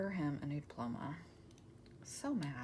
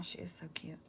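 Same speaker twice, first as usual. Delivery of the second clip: soft fond whisper; fond whisper about her mother-in-law; tender whisper; 7 dB quieter than usual. Real, not acted. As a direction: whisper it fondly.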